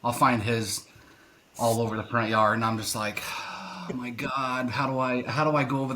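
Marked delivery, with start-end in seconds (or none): 3.2-5.9 retold exasperation. Finding the neighbour dog's mess in the yard, exasperated.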